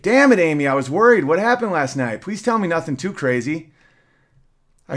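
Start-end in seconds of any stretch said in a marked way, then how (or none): 0.0-3.7 sharp burst of anger easing into relief; angry but relieved. Retold or imitated. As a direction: snap at her, then soften with relief. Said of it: "I answer angrily but relieved".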